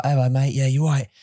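lightly imitated casual British accent; chummy working English accent; Babak. Host showing a friend's accent, matey British accent. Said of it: "his accent would be more like".

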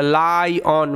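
"লায়ন" split slowly into lai and on; broken-up pronunciation. Shown as a demonstration. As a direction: sound out "লায়ন" syllable by syllable. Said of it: "L I ওই কারণে লাই".

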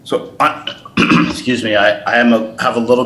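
clearing a frog in throat. Real, not acted. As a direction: speak through a frog in throat. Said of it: "a frog in my throat tonight".

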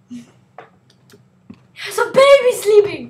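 slow, drawn-out joking warning; mock hush. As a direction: pretend to shush, very slowly.

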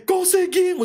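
high, loud shout of relief; triumphant cry. Retold or imitated. Teen escaping the police at the mall, triumphant shout. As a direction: yell it like you just escaped.

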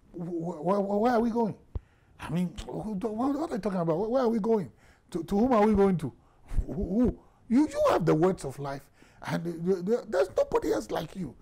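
aggressive. Retold or imitated. Peter answering Jesus, loud and aggressive. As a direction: push back hard, stumbling over words. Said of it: "Peter comes out in the aggressive tone".

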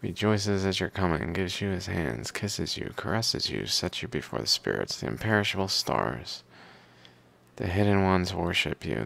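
steady recital with firm phrase openings; reading aloud. Acted. Reader reciting hymns to the Pharaoh and their commentary, reading aloud. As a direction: read it like verses from an old book.

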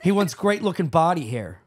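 even, scripted podcast sponsor read. Real, not acted. Host reading a Father's Day sponsor spot, ad read. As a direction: read the copy like a host's ad spot.

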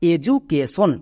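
এডুকেশন split into four measured syllables; teacher's broken-up example word. Shown as a demonstration. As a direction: spell out the beats of এডুকেশন, syllable after syllable. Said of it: "যেমন একটা example দেখো".

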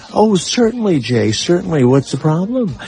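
lightly mocked friendly phone voice; friendly receptionist. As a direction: imitate an overly friendly office greeter. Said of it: "She's like Miss Friendly".

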